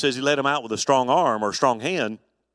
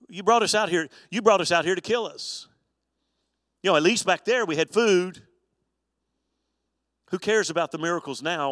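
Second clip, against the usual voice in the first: mock indignant complaint; 5 semitones higher than usual. Preacher voicing hungry Israelites accusing Moses, hammed-up indignant. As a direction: play the grumbling crowd, outraged and a bit whiny.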